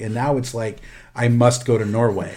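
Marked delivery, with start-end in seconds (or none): 1.1-2.3 a hint of a bad Norwegian accent, hammed-up; terrible Norwegian accent. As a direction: lightly fake Norwegian accent, like a kid. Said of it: "That was a terrible Norwegian accent".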